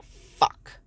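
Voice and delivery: breathless whispered fuck; whispered curse. Retold or imitated. Mother realizing sister's betrayal, whispered curse. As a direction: let it slip under your breath.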